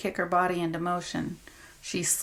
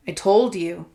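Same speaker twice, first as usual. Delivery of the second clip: snarled; 5 dB louder than usual. Acted. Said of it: "snarled the man".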